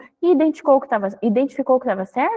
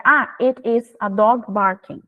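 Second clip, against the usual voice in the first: slow, careful model answer; slow child answer; slower than usual. Shown as a demonstration. Teacher modelling a child's answer, slow and careful. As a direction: spell it out slowly for the child. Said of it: "ela tem que fazer".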